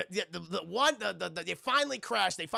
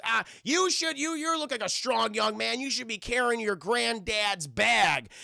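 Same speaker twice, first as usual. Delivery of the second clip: raised, mock-stern lecturing voice; scolding gate guard; 4 semitones higher, 3 dB louder than usual. Guard scolding the young man about granddad's bag, mock-stern. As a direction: start high, slow into the reproach. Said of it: "the guy goes".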